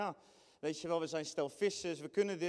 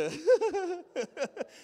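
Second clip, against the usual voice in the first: high burst of laughter; 9 semitones higher, 5 dB louder than usual. Real, not acted. Preacher laughs at Bible humor.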